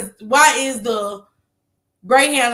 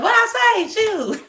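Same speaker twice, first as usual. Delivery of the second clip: put-on high girlish reply; 10 semitones higher, slower than usual. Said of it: "She's like".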